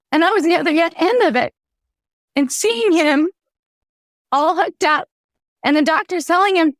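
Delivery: holding back tears while telling it; tearing up. Real, not acted. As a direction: voice lifted with real emotion on the edge of crying. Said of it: "I'm gonna tear up thinking about this".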